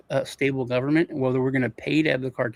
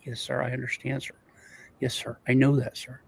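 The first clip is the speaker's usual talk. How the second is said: meek, understated imitation of an underling; massively subservient; 5 dB quieter than usual. Police chief placating the threatening cartel boss, quietly subservient. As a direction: placate a superior with subdued acknowledgments. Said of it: "the tone, this guy was, like, massively subservient".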